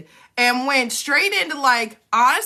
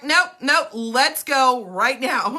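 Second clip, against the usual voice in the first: blunt, loving warden; 2 semitones higher, 4 dB louder, much slower than usual. Retold or imitated. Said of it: "very blunt and very, like, Warden-esque".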